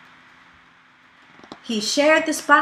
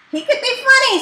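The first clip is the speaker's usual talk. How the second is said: sly dragon head; 12 semitones higher, 5 dB louder, faster than usual. Acted. Snide weighs up his prey.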